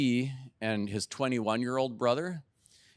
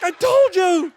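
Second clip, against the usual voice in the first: much higher and louder, laughing as he says it; laughing I told you; 15 dB louder, slower than usual. Real, not acted. Dad gloating to his son on the phone, laughing. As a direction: gloat happily through a laugh. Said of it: "I was like".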